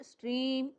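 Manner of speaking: स्ट्रीम as one unbroken syllable. Shown as a demonstration. Teacher showing a monosyllable, said all at once. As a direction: say स्ट्रीम in a single piece, no partition. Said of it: "एक ही बार में बोला".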